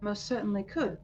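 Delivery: charming fashion lover. Acted. Ambrose charms the shopkeeper.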